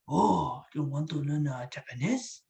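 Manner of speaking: put-on caricatured Japanese accent. Impressionist setting an accent challenge, mock Japanese accent. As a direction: offer a lesson in a Japanese accent. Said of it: "I can't do Japanese".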